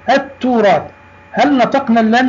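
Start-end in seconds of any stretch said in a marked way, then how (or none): 0.1-0.8 التراث with the l dropped into a doubled t; teacher repeats التراث, pressing on the double t; silent lam. Shown as a demonstration. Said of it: "لا، لم ننطقها". (نطق «التراث» بلام صامتة وتاء مشددة)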